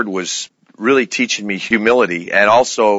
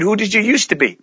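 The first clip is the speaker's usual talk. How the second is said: put-on higher, guileless child's question; innocent young girl; 10 semitones higher than usual. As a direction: ask it with a kid's innocent bluntness. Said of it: "She said".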